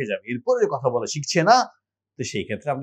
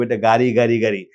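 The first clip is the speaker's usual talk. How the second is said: put-on naming a toy for a baby; 2 semitones lower than usual. Shown as a demonstration. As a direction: show the child the ball and say it. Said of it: "বলবো".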